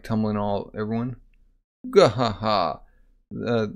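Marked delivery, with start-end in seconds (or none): 1.9-2.8 spelt-out "gah ha ha" laugh; hammed-up story laugh; mock laugh. Storyteller after everyone tumbles, mock laugh.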